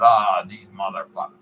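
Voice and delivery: lightly grumbled imitation of an old celebrity; mock weary grumble; Stan Lee impression. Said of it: "he was grumbling about having to sign all these books".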